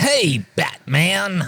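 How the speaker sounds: high, big, cartoony clown villain voice. Two friends trading impressions, one does a cartoony Joker voice. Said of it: "that's so cartoony".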